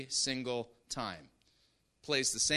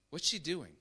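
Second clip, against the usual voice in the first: normal talking voice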